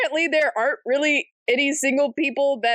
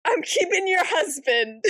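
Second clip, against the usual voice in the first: laughing villain line; 3 semitones higher than usual. Retold or imitated. Voicing villain through laughter.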